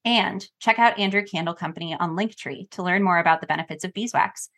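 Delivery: polished podcast sponsor read. Real, not acted. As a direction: deliver a scripted host endorsement. Reads a sponsor ad.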